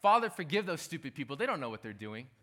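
mock-pious, looking down on the crowd; contemptuous prayer. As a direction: spit it out with disdain for them. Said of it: "he didn't say it like this".

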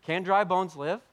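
high, loud, slow pleading; a loud slow plea, voice lifted high; pleading cry. Retold or imitated. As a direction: cry out to God in disbelief. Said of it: "Ezekiel rightfully is saying".

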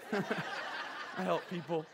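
slow, soft, embarrassed repeat; sheepish mumble. Retold or imitated. Pastor repeating his job to neighbor, sheepishly. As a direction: draw it out quietly for comic embarrassment.

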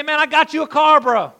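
high, loud and proud announcement; acted-out excited shout; excited gift-giver. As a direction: burst out with big news for a buddy. Surprising a friend with a car.

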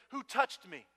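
Jesus's loud question. Retold or imitated. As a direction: call out over the crowd. Jesus asks, retold loudly.

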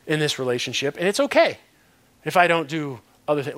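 mock dreamy excuse. Pastor mimics a churchgoer excusing himself with romance, mock dreamy. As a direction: play the smitten churchgoer, half-joking. Acted excuse about new relationship.

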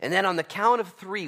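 a high, loud rallying cry to the troops; loud battle call. Acted. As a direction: shout the orders across the hills. Preacher calling out battle orders.

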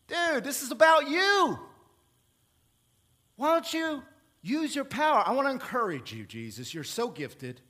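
a hint of a sly, needling tempter; Satan goading hungry Jesus, lightly voiced; tempting Satan. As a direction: coax him with mock concern.

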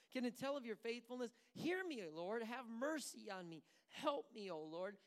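pleading lament. Retold or imitated. Preacher voicing David's lament.

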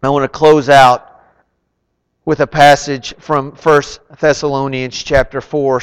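usual speaking voice

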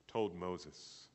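ordinary talk, nothing marked

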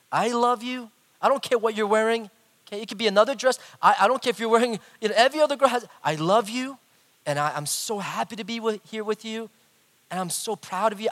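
retold pep talk, high and earnest; preaching at his daughter. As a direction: press the reassurance on her. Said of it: "preaching to her".

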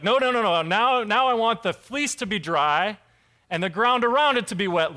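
pushy no no no; insistent Gideon. Retold or imitated. Gideon demanding a reversed fleece sign from God, insistent.

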